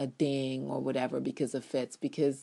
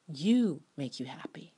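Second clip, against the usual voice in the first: breathy whispered aside. Real, not acted. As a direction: whisper it like a secret to the viewer. Whispered punchline to viewers.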